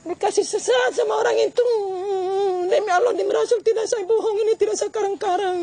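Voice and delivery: crying. Real, not acted. Mother swears, weeping.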